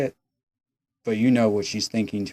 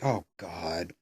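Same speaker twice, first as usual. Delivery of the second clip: mock groan; 4 semitones lower, 9 dB quieter than usual. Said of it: "She's like".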